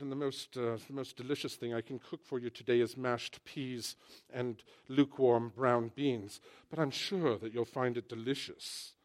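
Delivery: lightly put-on British accent; a hint of polite British understatement. British cook offering mashed peas and beans, mild British accent. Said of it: "But the British".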